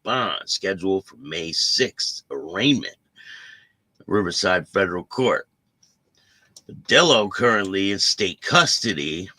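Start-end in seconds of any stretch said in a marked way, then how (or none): 4.1-9.3 harsh popping plosives on the mic; popping p sounds with no pop screen. Real, not acted. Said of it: "I'm sorry for the popping".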